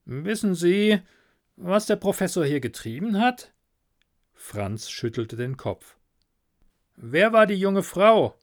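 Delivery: brisk police inspector calling out. Acted. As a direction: call the assistant like a gruff inspector. Inspector questions Franz.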